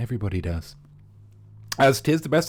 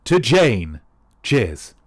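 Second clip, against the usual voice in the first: a toast in a northern English accent; 4 semitones lower, 5 dB louder, much slower than usual. Shown as a demonstration. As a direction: raise the glass like a Daphne from the north of England. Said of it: "Some of them sound like this".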